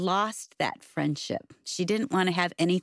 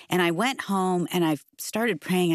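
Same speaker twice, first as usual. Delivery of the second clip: ordinary talk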